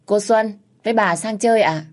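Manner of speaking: bright, eager maid greeting her guests; gleeful. A narrator's reading. Maid Mận greets Xuân at the gate, gleeful and eager. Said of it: "tiếng con Mận hí hửng".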